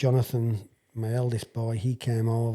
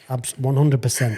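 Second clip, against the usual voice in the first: quoting him through laughter; mid-laugh; laughing quote; 5 dB louder than usual. Real, not acted.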